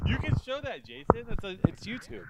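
whispered aside. Real, not acted. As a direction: whisper it to the cameraman. Aside to cameraman.

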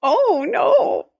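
high, laughed-out groan; real cracking up; helpless amusement. Real, not acted. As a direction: squeal it through laughter. Co-host cracking up at the joke.

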